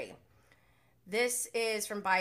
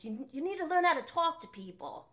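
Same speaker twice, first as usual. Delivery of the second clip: higher-pitched, bad Australian accent imitation; attempted Australian accent; 7 semitones higher than usual. Fan quoting Brock from the show, shaky attempt at Australian accent. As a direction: have a poor go at an Australian accent. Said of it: "I can't really do the Australian accent".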